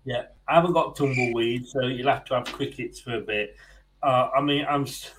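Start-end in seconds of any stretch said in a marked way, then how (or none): 4.7-5.1 holding back laughter; trying hard not to laugh; stifled giggles. Real, not acted. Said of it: "I'm trying not to laugh".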